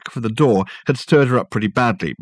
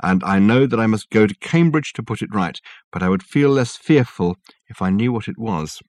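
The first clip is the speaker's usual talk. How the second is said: low dispirited voice. Acted. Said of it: "in a low, dispirited voice".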